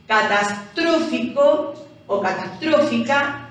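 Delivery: "Catastrófico o catastrófica" leaning on tró each time; stressed syllable demonstration. Shown as a demonstration. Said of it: "cargamos la voz".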